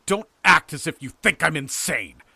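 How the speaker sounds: loud, high, furious warning; trembling fury. A narrator's reading. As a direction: cry out in indignant fury. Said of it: "trembling with fury".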